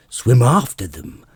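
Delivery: loud excited scream. Acted. Gryphon screaming the dance steps to Alice, loud scream. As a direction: fling it out at full volume. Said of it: "screamed the Gryphon".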